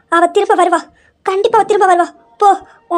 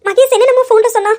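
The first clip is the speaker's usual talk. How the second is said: still tearful; 4 semitones higher, faster than usual. Acted. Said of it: "நீங்க அழாதீங்க".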